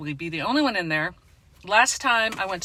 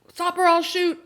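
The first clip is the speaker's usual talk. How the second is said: mock police shout; 11 semitones higher, 5 dB louder than usual. Policeman bursting in to stop Thorne.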